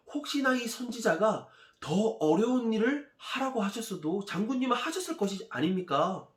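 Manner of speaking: high-pitched, earnest coaxing; pleading soldiers. Acted. Soldiers holding back their angry general, pleading. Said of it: "나아만 장군을 말렸어요".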